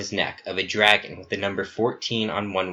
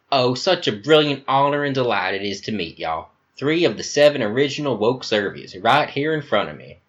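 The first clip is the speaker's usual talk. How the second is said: higher, louder, gushing Southern charm; flamboyant Southern accent; 3 semitones higher, 3 dB louder than usual. Acted. Talk Now hugging Epsilon, gushing Southern accent. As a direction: greet him like a long lost darling. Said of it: "He has an American Southern accent".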